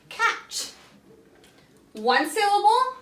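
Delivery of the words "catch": whispered word. Shown as a demonstration.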